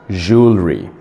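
"Jewelry" as two clear syllables, JOOL-ree; correct pronunciation. Shown as a demonstration. Teacher repeating the fix, "Jewelry" pronounced correctly. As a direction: model "Jewelry" with a falling end. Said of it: "The correct pronunciation is".

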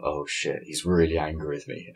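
hushed, sinking worry; worried inner thought. Retold or imitated. After asking for the catchphrase, hushed worried thought. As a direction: mutter the panic to yourself as the silence drags. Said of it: "and I thought".

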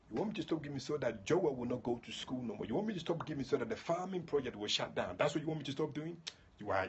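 defiant scolding of the devil; mock rebuke of the devil. Believer scolding the devil for tempting them, defiant. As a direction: talk back to the devil, taunting.

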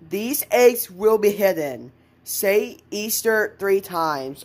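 slow, measured reading; note read aloud. Acted. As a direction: read the note out slowly and deliberately.

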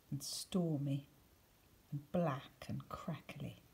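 breathy hush for dark weather; hushed whisper. A narrator's reading. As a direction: whisper the stormy, crackly words. Stormy thoughts read softly.

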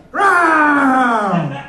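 hammed-up lion roar. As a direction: roar like a lion after dinner. Comic playing a roaring lion.

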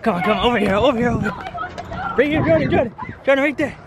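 high calling out; calling from far away. Real, not acted. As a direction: call her over from a distance. Calling the child to eggs.

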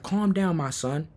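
soft fatherly hush; calming, imitated. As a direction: quietly soothe a worked-up boy. Man soothes the shouting boy.

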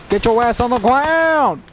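mock cop bark; tough cop voice. Gamer barking at a game enemy in a cop voice. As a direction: play a gruff cop barking orders. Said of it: "I don't know why I like to do that voice".

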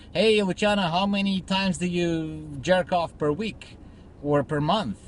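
lightly voiced teasing friend; mock nosy buddy. A friend cornering Luciano with a cheeky question, lightly mocking. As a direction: poke at him like a nosy pal.

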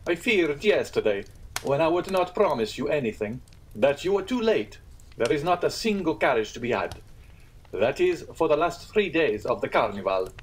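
a hint of the triumphant landlord. Landlord Pastrini voiced.

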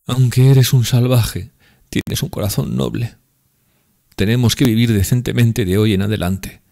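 high, loud tipsy woman pleading; drunk Grushenka. Acted. Grushenka longing.

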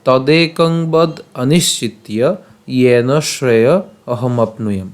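slow, deliberate shloka reading; verse recitation. Shown as a demonstration. Teacher presenting today's shloka, slow recitation. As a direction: recite each phrase slowly, with clear breaks. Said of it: "আজকের শ্লোকটি হলো".

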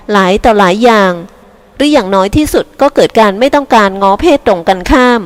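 lightly voiced young woman reasoning politely; a touch of earnest persuasion; arguing granddaughter. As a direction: argue your case to grandma. Sister argues with grandma.

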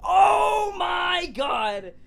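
very high, loud screams; screaming. Real, not acted. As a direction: shriek in shock and pain. Screaming in pain or shock.

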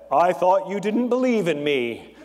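lightly voiced God from the clouds; a touch of heavenly boom, for a joke. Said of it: "Then a booming voice came from the clouds".

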